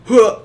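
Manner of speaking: loud, high exhaled huh; short burst of breath as a huh; retold huffed huh. Organizer after the kid takes off, retold huffed huh.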